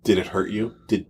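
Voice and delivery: hushed fake-counsellor sympathy; mock concern. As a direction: gently probe as if comforting a victim. Mock-concerned questioning about game trauma.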